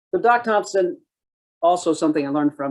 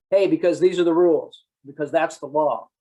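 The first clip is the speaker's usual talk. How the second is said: mock blunt rule-stating; 3 semitones higher than usual. Cop citing the law to a citizen, blunt. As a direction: state the rules bluntly. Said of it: "Sometimes you can".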